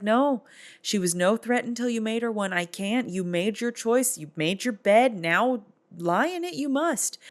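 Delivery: a touch of a stern brother, pitched high. Acted. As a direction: lay down the verdict, Yoda-like at the end. Brother refuses the queen.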